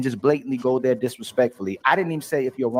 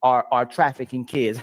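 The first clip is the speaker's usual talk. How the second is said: bad-faith example; slower than usual. Shown as a demonstration. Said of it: "I could say something like".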